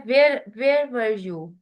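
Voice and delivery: a calm, polite question, nothing accusing in it; easygoing polite asking. Shown as a demonstration. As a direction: ask it gently, as if just curious. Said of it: "अगर मैं उसको polite tone में कहती हूँ".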